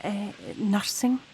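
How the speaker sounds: slow, hesitant answer; halting and unconvinced; unsure. Acted. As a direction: answer slowly, as if not quite sure. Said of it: "You don't sound very sure".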